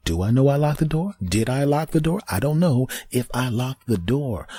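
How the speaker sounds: second-guess yourself in a fluster; mock panic. Doubting if he locked the door, high fluster.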